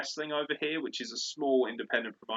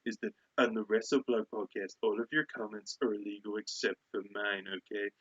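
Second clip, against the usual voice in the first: put-on wrestling heel lecturing; ridiculous voice. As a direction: lay down the rules in a silly voice. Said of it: "He's got such a ridiculous voice".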